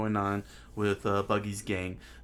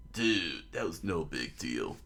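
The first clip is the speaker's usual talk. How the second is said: laid-back Luffy; 5 semitones lower than usual. Acted. Acts laid-back Luffy replying.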